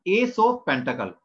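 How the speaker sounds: slow, spaced-out "Ace of Pentacle" as a model; pronunciation demo. Shown as a demonstration. Teacher showing students how the card is called, slow pronunciation demo. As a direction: say "Ace of Pentacle" slowly, word by word. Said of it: "तो उसको pronunciation कैसे करेंगे".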